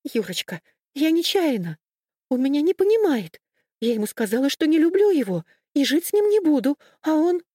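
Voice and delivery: high, loud, sobbing babble of a guilty woman; tearful babbling. A narrator's reading. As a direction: babble it out through tears, pleading. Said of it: "как виноватая баба лепетала".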